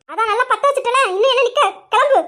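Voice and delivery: sharp angry get out; angry dismissal. Acted. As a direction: throw her out in anger. Ordering her out in quarrel.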